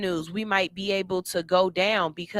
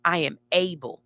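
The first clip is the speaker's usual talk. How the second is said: affirmation. Shown as a demonstration. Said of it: "That voice that tells you".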